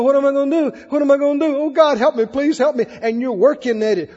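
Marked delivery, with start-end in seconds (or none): 0.0-2.8 frantic pleading. Acted. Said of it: "pull your hair and pace the floor".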